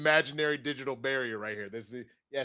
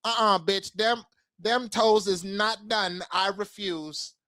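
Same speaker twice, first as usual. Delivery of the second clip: sassy voice; 4 semitones higher, slower than usual. Retold or imitated. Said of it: "that's biting off".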